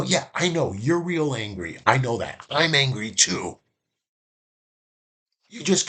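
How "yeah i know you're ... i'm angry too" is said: agreeing. Shown as a demonstration. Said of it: "And you go".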